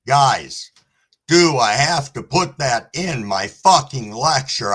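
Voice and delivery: snapping at the stream after a scare; real yelling. Real, not acted. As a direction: blurt it out annoyed at the guest. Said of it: "I'm sorry that I'm yelling about that".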